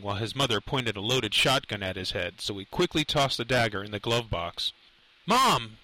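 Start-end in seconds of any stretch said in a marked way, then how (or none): 5.2-5.8 higher, restrained narrator's yell. A narrator's reading. Son calling to his armed mother, restrained yell. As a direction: call out with mild urgency. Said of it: "he yelled as he opened".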